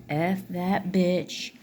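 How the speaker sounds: slow, drawn-out mock contempt; contemptuous. Narcissist parent talking about you, contemptuously. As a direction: imitate a parent's scornful insult, stretched out. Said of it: "That's the way that they're talking about you".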